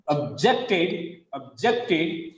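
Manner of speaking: "objected" as ob-JECT-ed; weak ob, strong JECT in "objected"; second-syllable stress. Shown as a demonstration. Teacher showing the verb, stress on JECT in "objected". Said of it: "Second syllable is stress".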